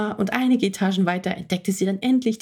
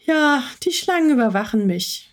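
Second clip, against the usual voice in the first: sad. Acted. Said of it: "sagte Maya sehr traurig".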